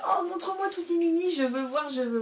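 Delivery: imitating her own eager begging at the stand; childlike eager plea. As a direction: beg to see the minis, playfully whiny. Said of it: "j'ai fait".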